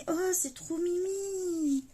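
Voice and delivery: high, drawn-out gushing coo; real high-pitched "aww" gush; cooing delight. Real, not acted. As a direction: melt over something adorable, stretching it out. Gushing over cute little cards.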